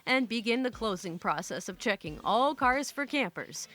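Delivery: measured storyteller read of a first-person tale; story narration. A narrator's reading. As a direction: narrate it with deliberate, even phrasing. Reads a posted story aloud.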